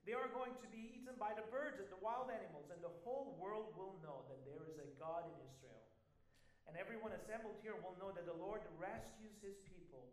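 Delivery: defiant proclamation. Acted. Reading David's defiant speech.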